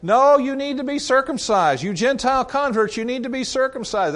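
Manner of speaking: high, loud, pushy demand; insistent Judaizers. Retold or imitated. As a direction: press the converts as if it's urgent. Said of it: "the voices coming at the Christians saying".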